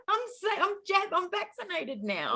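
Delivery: high, stumbling words through laughter; real giggly recovery from tears; laughing. Real, not acted. Client joking about her vaccine after crying, laughing.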